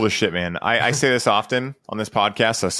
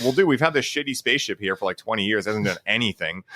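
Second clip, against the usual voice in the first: imitating a scientist who starts offhand, then climbs much higher; giddy scientist; 4 semitones higher than usual. Scientist telling the president about the spaceship, building giddy excitement. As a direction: start casual, then rise into kid-like glee over the buttons. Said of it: "He's like".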